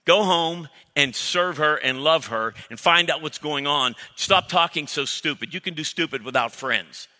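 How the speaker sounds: a hint of a gruff buddy telling him off; mock-scold like a straight-talking friend; blunt friend. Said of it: "your godly friend looks at you and says".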